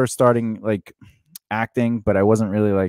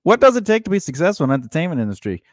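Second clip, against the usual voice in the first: host announcement; 7 semitones higher, faster than usual. Shown as a demonstration. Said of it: "repeats the topic as host".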